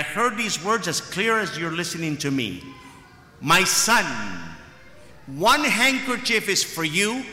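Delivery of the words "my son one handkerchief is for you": voice of Jesus. Retold or imitated. Quotes Jesus speaking to him.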